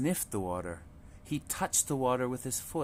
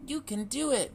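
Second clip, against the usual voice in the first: encouraging mother duck; 12 semitones higher than usual. A narrator's reading. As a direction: cheer the little ones on. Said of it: "Mama said".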